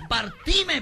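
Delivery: high, loud theatrical plea; campy flirting. Acted. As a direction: call out flirtatiously, hammed-up. Coquetea exagerado con el grandote. (coqueteo agudo y exagerado)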